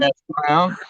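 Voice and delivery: unvoiced whisper of an insult. Real, not acted. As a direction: hiss the insult under your breath. Muttered insult after Fuck you.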